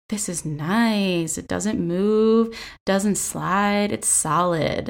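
slow, drawn-out imitation with a mock come-hither tone; mock sultry. Mother imitated at the ballet bar, mock sultry and slow. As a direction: tease it out slowly, like a hammed-up seduction. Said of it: "that seemed a little pornographic".

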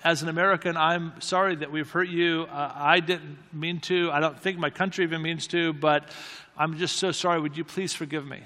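gently retold, understated apology; humble, contrite apology. Friend apologizing as an American to the offended journalist, humbly and contritely. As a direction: apologize humbly, slowing down and softening at the end. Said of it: "he just said very humbly and contritely".

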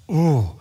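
loud retold "ooh" of dismay; mock-recoil in one loud groan; disgusted groan. Preacher recalling his reaction to the bad singer, mock disgust.

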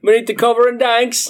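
fast, high, loud silly British; mock British accent. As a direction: rattle it off as a cartoon Brit. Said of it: "read in a British accent".

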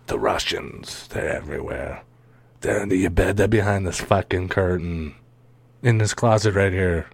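hushed creepy fearmonger voice; mock spooky warning. Host parodying Russia fearmongering in a hushed creepy voice. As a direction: spook them like a ghost story.

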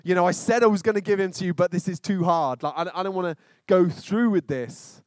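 pleading with God. Pretend. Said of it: "I'm thinking".

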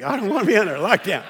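quick petulant whine; mock whining. Congregant griping about lockdown, quick whine. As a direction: whine like a fed-up kid stuck inside.

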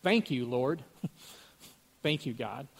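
flat, half-hearted thanks to God, broken by chuckles; going through the motions, not meaning a word; unbelieving praise. Retold or imitated. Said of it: "I said it just like that, not believing".

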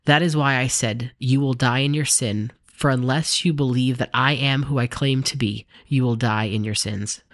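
measured, clearly articulated Bible reading; scripture reading. A narrator's reading. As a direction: read the dialogue aloud with lively emphasis. Reads Bible passage aloud.

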